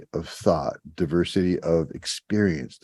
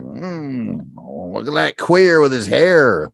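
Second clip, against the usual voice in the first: sneering redneck voice; 5 semitones higher, 5 dB louder, slower than usual. Retold or imitated. Voicing hostile locals.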